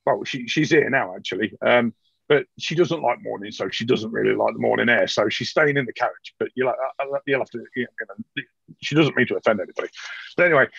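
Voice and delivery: Van Gebel. Acted. GM voices nervous noble Van Gebel.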